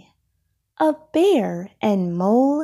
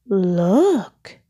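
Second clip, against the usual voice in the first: mild cry; 4 dB louder than usual. Acted. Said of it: "cried Bear".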